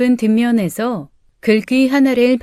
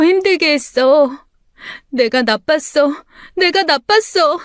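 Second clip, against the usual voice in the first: guilty breakdown; 4 semitones higher than usual. Acted.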